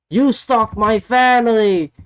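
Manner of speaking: high, loud accusing shout; mock angry yell. Hangman accusing Swerve backstage, mock yell. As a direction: throw the charge hard, hammed-up. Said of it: "Hangman was like".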